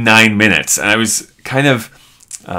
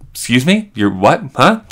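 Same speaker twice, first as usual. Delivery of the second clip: higher, startled "Excuse me?" then trailing off; baffled surprise; 4 semitones higher than usual. Retold or imitated. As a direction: caught off guard by a strange answer. Baffled by stranger's claim.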